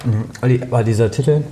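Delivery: talking through a bite; chewing while talking. Real, not acted. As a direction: mouth full of bread roll. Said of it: "ich esse gerade ein bisschen mein Brötchen weiter".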